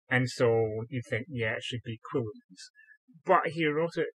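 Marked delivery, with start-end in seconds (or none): 2.1-2.7 Quillons said the English way, starting "kwil"; anglicised pronunciation. Shown as a demonstration. Sword expert weighs pronunciations, Quillons in anglicised form. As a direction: say Quillons with an English "kw" and a sounded final N. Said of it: "as an anglicised word".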